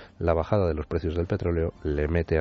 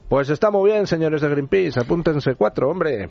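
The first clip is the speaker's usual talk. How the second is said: sarcastic; 9 semitones higher, 5 dB louder than usual. Real, not acted. Mocking Greenpeace on air.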